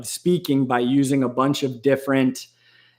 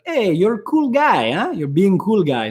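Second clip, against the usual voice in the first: lightly voiced goofy teasing tone, higher at the start; mocking cool guy voice; 5 semitones higher than usual. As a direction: poke fun at someone acting tough. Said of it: "is I'm like".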